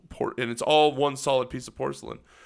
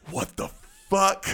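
shocked outburst; 6 semitones higher than usual. Retold or imitated. Soldier telling of his first sight of the toilet, shocked outburst.

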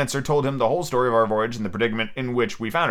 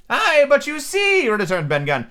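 Ben Gunn voice; 9 semitones higher than usual. A narrator's reading. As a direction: confide like a lonely hermit.

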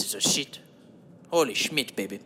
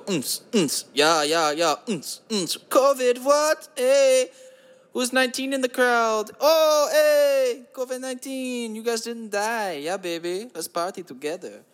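mock club hype; 7 semitones higher, slower than usual. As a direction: hype the crowd like a cheesy DJ. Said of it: "we go".

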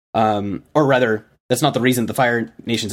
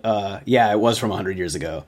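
sheepish admission; 4 semitones lower than usual. Retold or imitated. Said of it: "look on their faces like".

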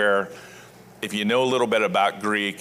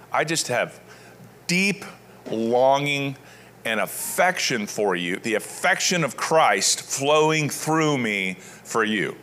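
affectionate Paul; slower than usual. Acted. Paul telling his beloved church how he longs for them, slow and affectionate. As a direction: pour out the affection, slowly. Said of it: "That's how he talks".

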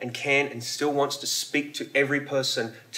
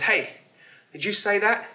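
higher-pitched questioning call in a joke; startled burglar calling out; 7 semitones higher than usual. Acted. Burglar to the parrot he has found, calling out in surprise.

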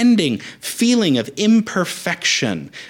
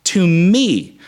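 rallying call; 4 semitones higher, 4 dB louder, much slower than usual. Retold or imitated. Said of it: "He's essentially saying".

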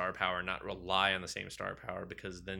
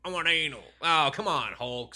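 mock whiny wife; 6 semitones higher, 7 dB louder than usual. Voicing Black Widow pleading.

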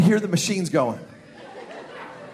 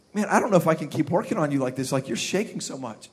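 low, soft aside; lightly voiced dentist, lowered and hushed; confiding dentist; 7 semitones lower, 7 dB quieter, faster than usual. Dentist to shaking patient with mask lifted, low and confiding.

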